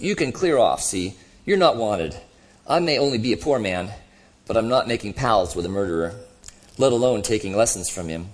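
lightly voiced grumbling ghost; a touch of self-righteous grievance in the voice; indignant ghost. Ghost defending his record to the other, mildly indignant.

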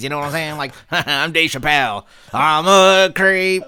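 exaggerated celebrity impression, stretching key words; Dave Chappelle. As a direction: put on a swaggering comic's voice. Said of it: "I'm liking the Dave Chappelle impression".

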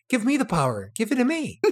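pleading like a begging dog; whiny plea rising high. Retold or imitated. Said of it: "a dog gives begging for food".

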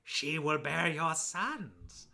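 mother's voice. Acted. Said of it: "And she's like".

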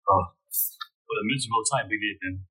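weary sigh. Acted. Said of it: "Christophe just sighs".

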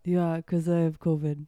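stuffy, congested sick voice. Real, not acted. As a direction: speak through a blocked nose. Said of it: "Is that why you're talking like that?".

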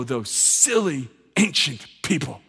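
mocking dismissal. Congregation member scoffing at ancient people, mocking. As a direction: sneer at the ancients, drawn out. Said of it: "and go".

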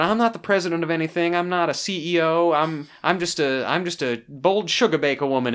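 imitated Texan accent; lightly put-on Texan twang. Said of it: "latched onto her Texan accent".

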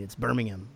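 Birmingham said the British way, ending in a light "um". Shown as a demonstration. Taught by UK fans, Birmingham said the British way. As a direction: Birmingham with a soft unstressed "-um" ending. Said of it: "That's how you fucking pronounce it".

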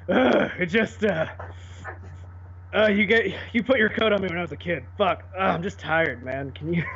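tired, panting Batman voice; breathless Batman. Pretend. Friend parodies Batman running out of breath mid-speech. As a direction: gasp the words like a worn-out hero. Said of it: "It's exhausting talking like this".

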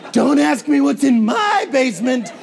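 hammed-up creepy shout; creepy neighbor. Showing the wrong smile to a stranger, mock creepy. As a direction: play a sinister basement owner, loudly. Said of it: "It wasn't that".

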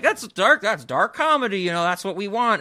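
gushing fan voice, played for laughs; mock enthusiasm. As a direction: cheer it on like a smug audience. Mocking an approving audience.

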